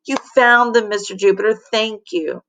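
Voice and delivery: put-on a child thrilled to get them back; happy little girl thanking the janitor; delighted. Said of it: "clapped her hands in delight".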